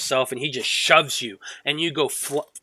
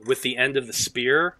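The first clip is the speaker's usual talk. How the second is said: ordinary talk, nothing marked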